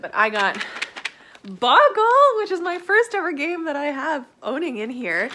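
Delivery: loud high-pitched excitement; excited. Real, not acted. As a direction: announce the gift thrilled. Excited about gift.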